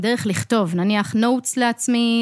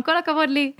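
"כל הכבוד לי" sung out higher, playfully pleased with herself; mock self-praise; 5 semitones higher than usual. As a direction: cheer yourself on like a joke after the dishes. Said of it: "אני אומרת בקול רם". (שבח עצמי מתבדח ומוגבה)

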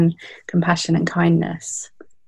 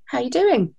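light, higher, breezy "how are you doing"; innocent casual greeting; 7 semitones higher than usual. Retold or imitated. Registrar greets the young doctor in passing, innocently casual. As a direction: toss it off innocently, much higher. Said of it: "he just said to me quite innocently".

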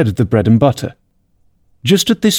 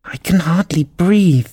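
slow, higher-pitched little creature; complaining Dormouse; 7 semitones higher, slower than usual. A narrator's reading. The Dormouse complains to Alice beside it, slow and put-upon. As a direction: drag out the complaint in a high voice.

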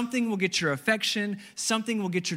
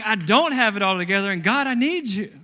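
earnest prayer; 4 semitones higher, 6 dB louder than usual. Pretend. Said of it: "is acknowledging".

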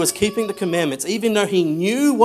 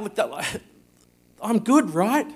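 mock smug laugh; 5 semitones higher than usual. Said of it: "he's like".

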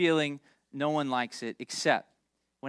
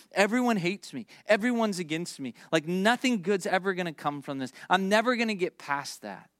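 mildly dramatised despairing outburst; overwhelmed complaint; 3 semitones higher than usual. Acted. People saying things when overwhelmed, mock emotional complaint. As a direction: imitate someone overwhelmed, slightly raised pitch. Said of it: "We get overwhelmed and we say things".

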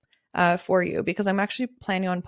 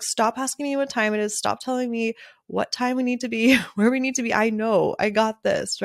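exasperated venting, slightly raised pitch; frustrated outburst; 3 semitones higher than usual. Retold or imitated. Photographer imagining snapping at a client, mildly frustrated. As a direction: vent pent-up annoyance without shouting. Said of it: "in a frustrated way".

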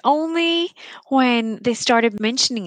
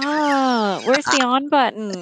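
mock helpless; 5 semitones higher than usual. Mocking a helpless boyfriend.

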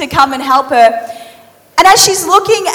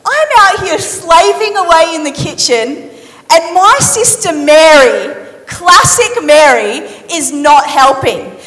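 mock frustration. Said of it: "she's like".

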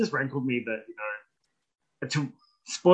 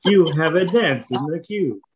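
phone queue recording; 3 semitones higher, 5 dB louder, slower than usual. Pretend. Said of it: "mock hold message".

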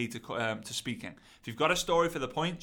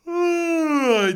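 yawn; 12 semitones higher, 7 dB louder than usual. Shown as a demonstration. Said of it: "don't be doing that with a low energy".

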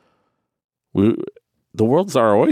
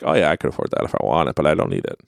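light carefree boast; 6 semitones lower, faster than usual. Retold or imitated. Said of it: "for us to be like".

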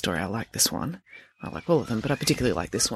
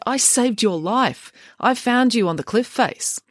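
reading a children's novel aloud with lively voiced dialogue; story narration; 2 semitones higher than usual. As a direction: tell the story to listeners, voicing each character. Reads novel aloud to listeners.

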